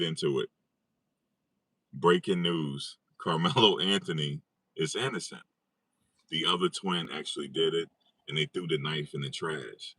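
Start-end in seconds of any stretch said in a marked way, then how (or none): 1.9-10.0 mock serious. Shown as a demonstration. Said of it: "Let me be, let me be serious".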